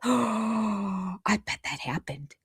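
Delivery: whispered sarcastic aside. Acted. Vlogger mocking Janelle to viewers, sarcastic whisper. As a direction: breathe it out as a sly, disbelieving whisper.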